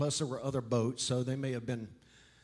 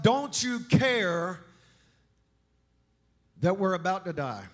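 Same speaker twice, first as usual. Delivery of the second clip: panicked disciple; 4 semitones higher, 4 dB louder than usual. Acted. Disciples waking Jesus in the storm, panicked plea. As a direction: beg in alarm.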